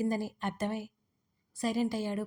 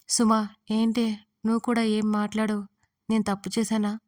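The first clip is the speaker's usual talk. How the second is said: a louder plea with a hint of sobs; softly sobbing; 7 dB louder than usual. A narrator's reading. Raksha begging Suma to say if she was wrong, with a hint of sobbing. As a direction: ask through small sobs. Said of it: "సన్నగా వెక్కిలి పెడుతూ అడిగింది".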